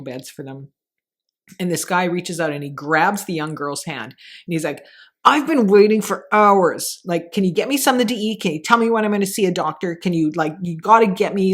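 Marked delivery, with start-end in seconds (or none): 5.3-11.5 mildly acted pushy demanding patient, louder; aggressive patient. A hint of an impatient ER patient grabbing a nurse's hand. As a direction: press hard, demanding food and a doctor. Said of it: "like, he's really aggressive".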